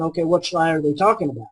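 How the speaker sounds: put-on quick, amused child thinking aloud; child's inner thought, laughing. Parent imagines the child's guilty thought with a laugh. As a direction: rattle it off with a laugh. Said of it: "the child immediately starts thinking".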